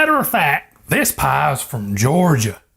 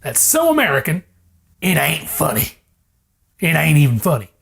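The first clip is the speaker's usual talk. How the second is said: put-on slipping Southern accent. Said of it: "my accent's slipping".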